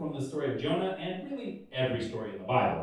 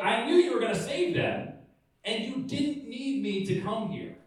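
high petulant complaint; 5 semitones higher than usual. Retold or imitated. Jonah complaining to God.

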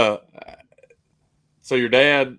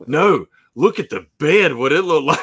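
louder, higher, insistent; excited; 6 semitones higher, 8 dB louder than usual. Real, not acted. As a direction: push them to look, laughing. Urging sisters to look.

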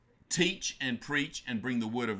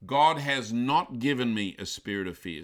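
spoken out boldly; 6 dB louder than usual. Shown as a demonstration. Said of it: "you're speaking it out".

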